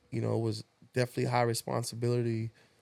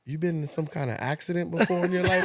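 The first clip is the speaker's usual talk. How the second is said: laughing through the quote; 5 semitones higher than usual. Retold or imitated. Retelling stranger's odd question.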